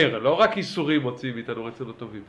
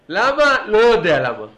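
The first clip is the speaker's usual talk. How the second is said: excited; 6 semitones higher, 8 dB louder than usual. Real, not acted. Excited about shouting, rhetorical.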